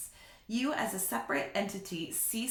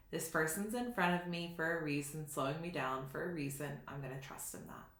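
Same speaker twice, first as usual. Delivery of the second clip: quiet; 3 semitones lower, 6 dB quieter, faster than usual. Retold or imitated. Trusting self-talk in traffic.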